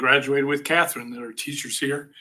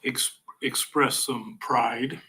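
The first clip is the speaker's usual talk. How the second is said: holding back tears; much slower than usual. Real, not acted. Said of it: "try not to cry".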